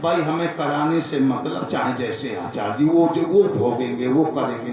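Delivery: low, offhand acted excuse; dismissive. Householder shrugging responsibility onto the priest, dismissive. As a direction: drop the pitch and brush it off. Voices careless people shrugging off duty.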